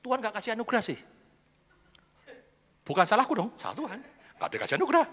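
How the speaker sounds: mock whining excuse. Menyalahkan Tuhan dengan merengek.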